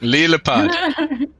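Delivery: Lillipad said very slowly and high; drawn-out name. Shown as a demonstration. The GM repeats the name slowly so the player can write it. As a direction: stretch out Lillipad syllable by syllable. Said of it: "I'll spell it to you later".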